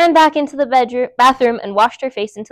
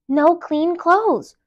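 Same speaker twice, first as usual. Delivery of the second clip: slow refrain; 6 semitones higher, much slower than usual. A narrator's reading. Refrain, higher this time.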